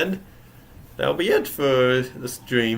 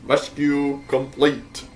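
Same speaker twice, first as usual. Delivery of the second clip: robot voice. Acted. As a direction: speak like a machine. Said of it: "doing the robot voice".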